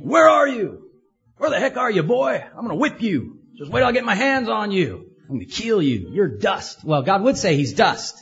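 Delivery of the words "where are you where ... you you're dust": hammed-up angry parent bellowing for the boy; angry scolding father. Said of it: "God wasn't saying".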